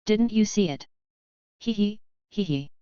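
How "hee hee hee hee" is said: sheepish little giggle; awkward laugh. A narrator's reading. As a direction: laugh it off nervously. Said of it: "Zhang Zhou laughed awkwardly".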